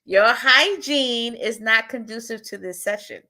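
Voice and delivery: slow, careful professional delivery. Shown as a demonstration. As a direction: lay it out gently and formally, for the spotlight. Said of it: "Say it again".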